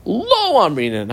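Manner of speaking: "Lo" slowed and hit hard; slow down and punch "Lo Amrinan"; stress on lo. Shown as a demonstration. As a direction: lean on "Lo" as the key word. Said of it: "I dot underline the word Lo Amrinan".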